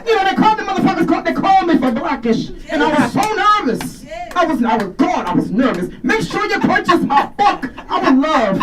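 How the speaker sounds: booming grand diva swagger; Jennifer Lewis. Retold or imitated. Comic doing Jennifer Lewis for the crowd, high grand diva voice. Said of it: "sound like her".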